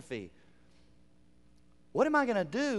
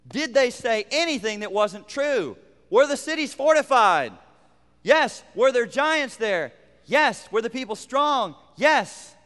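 louder, higher call and answer; emphatic yes; 4 semitones higher, 5 dB louder than usual. Real, not acted. Pastor answering his own questions to the congregation, emphatic. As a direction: hammer each yes home.

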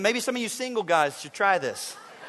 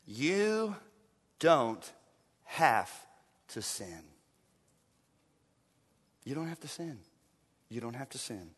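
much softer, lower, word by word; hushed; 8 semitones lower, 9 dB quieter than usual. Real, not acted. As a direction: lay each word down gently. Hushed emphatic repeat.

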